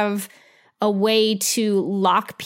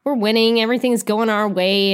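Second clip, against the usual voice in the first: starts high, breezy and carefree, then settles; tossing it off like a complacent general who knows he's winning; smug mock confidence; 5 semitones higher than usual. London military leaders shrugging off losses, higher, breezy and smug. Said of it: "'cause they're like".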